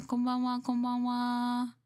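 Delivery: high, slowed sing-song konbanwa; mock Japanese greeting. Streamer repeating a playful greeting in a high sing-song.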